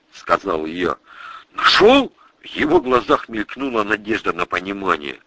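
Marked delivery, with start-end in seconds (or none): 1.5-2.1 высокий удивлённый вопрос; переспроси, не веря ушам; удивлённо. Acted. (удивлённо, на высокой ноте)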